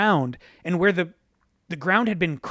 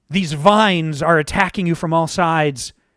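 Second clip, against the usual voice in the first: ordinary delivery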